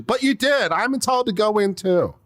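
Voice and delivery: high, mocking whine; whiny entitled patron. Next person in line demanding entry, high whiny voice. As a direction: play the spoiled guy demanding in.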